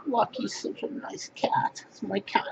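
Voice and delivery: whispering fondly about his cat; whispered aside. Real, not acted. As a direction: whisper so the cat stays calm.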